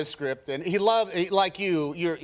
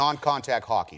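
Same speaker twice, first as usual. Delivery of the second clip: put-on broad Boston accent; 3 semitones lower than usual. Actor shows his FBI agent role, Boston accent. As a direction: say it like a Boston local. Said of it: "where did you get the accent?".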